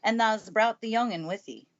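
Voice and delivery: put-on Yorkshire accent. Station master greeting the housekeeper, in a Yorkshire accent. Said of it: "pronouncing his words in a queer, broad fashion".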